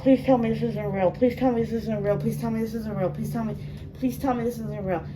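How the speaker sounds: rapid-fire repeated begging; desperate pleading. Real, not acted. Viewer begging the show not to be real, desperate pleading. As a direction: plead over and over in disbelief. Pleading at shocking scene on screen.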